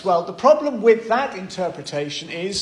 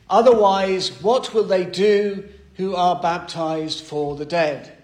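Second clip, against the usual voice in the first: emphatic reading; 2 semitones higher, 5 dB louder than usual. Shown as a demonstration. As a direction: proclaim the verse with a loud, ringing "Otherwise". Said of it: "the first thing that the apostle says".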